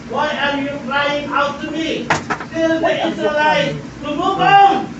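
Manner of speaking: high, loud pulpit delivery; rousing preaching. Acted. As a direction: drive the command home to the congregation. Preaching at full force.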